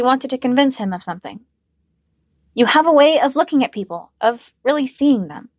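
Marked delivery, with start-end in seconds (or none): 2.5-5.5 tender affection. Acted. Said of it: "Her voice was filled with warmth and tender affection".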